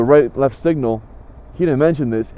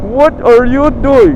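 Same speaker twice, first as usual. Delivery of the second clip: slow, high, loud outraged question; exasperated, drawn out; 7 semitones higher, 6 dB louder, slower than usual. Retold or imitated. Fed-up buyer confronting the seller again, slowly exasperated. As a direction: stretch each word in angry disbelief. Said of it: "that really pissed me off".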